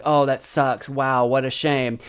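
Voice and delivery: low-key, genuine commiseration; understated, heartfelt regret; sincere sympathy. Shown as a demonstration. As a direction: say it plainly and mean it. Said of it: "like, a very sincere".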